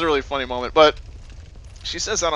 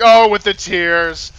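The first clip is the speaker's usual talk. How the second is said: loud, slow, higher mock yell; Bill Burr; 7 semitones higher, 13 dB louder, much slower than usual. Comedian ranting at a crying woman, imitated yelling. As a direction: holler it like an exasperated ranting comic. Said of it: "like, yelling at this woman".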